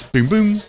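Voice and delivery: high-pitched mimicked bell chime; imitated service bell. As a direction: imitate a little bell going off. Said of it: "When you hit the button, it goes".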